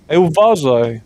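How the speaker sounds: startled shout of caution; sharp warning shout. Acted. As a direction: yell a quick warning to the driver. GM character warns driver.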